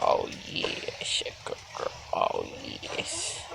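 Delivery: soft praise. Real, not acted.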